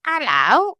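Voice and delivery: high chirpy hello; a bright bird calling out; parrot voice. A narrator's reading. Polly greets the gulls in bird talk, high.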